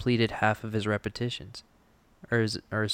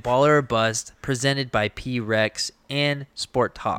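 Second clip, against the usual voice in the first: host intro; slower than usual. Acted. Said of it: "Now he's hosting".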